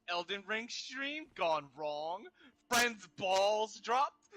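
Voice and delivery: slow, drawn-out hype title read; clickbait announcer. Pretend. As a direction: announce it like a dramatic clickbait headline. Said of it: "You're like, "Elden sh".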